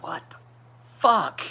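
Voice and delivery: rising to a loud, high shout; fed up with the stuck pivot screw; exasperated outburst. Real, not acted. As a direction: let the frustration burst out on the last word.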